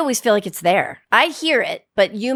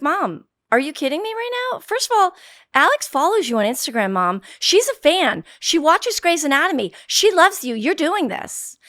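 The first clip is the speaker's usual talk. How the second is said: retold insistent daughter; 6 semitones higher than usual. Retold daughter lecturing her mom.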